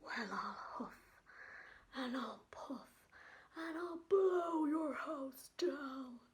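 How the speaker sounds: a hint of a menacing wolf, half breathed; big bad wolf threatening the pig; wolf threat. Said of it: "wolf threatens".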